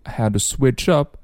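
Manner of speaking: "had to" reduced to "ha-tuh"; "had to switch up" with a light, short "to"; weak "to". Shown as a demonstration. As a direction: drop the d of "had" and weaken "to". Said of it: "to弱读".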